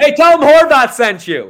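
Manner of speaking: high, loud wise-guy catchphrase; tough-guy voice. Pretend. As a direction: bark it like a mobster. Gangster-style catchphrase, loud.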